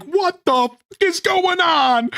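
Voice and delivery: a lightly voiced confused chat; mock confused chat. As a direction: play the baffled viewer. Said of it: "The chat is like".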